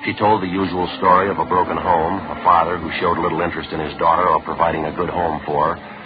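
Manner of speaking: brisk, matter-of-fact detective voice-over; police case narration. A narrator's reading. Detective recounts the investigation to listeners, matter-of-fact narration. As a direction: report the case like an official log.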